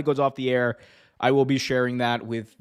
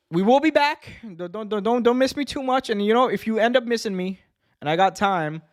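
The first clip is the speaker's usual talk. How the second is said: playful high voice; 8 semitones higher than usual. Real, not acted. Playful sign-off to viewers.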